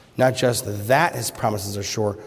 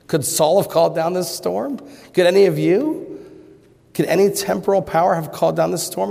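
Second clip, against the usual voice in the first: higher, louder, pressing each question harder; rising preacher challenge; 7 semitones higher, 4 dB louder than usual. Real, not acted. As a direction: hammer the questions at the congregation.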